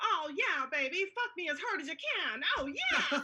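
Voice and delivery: put-on old-film mid-Atlantic voice. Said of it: "everybody had like a mid-Atlantic accent".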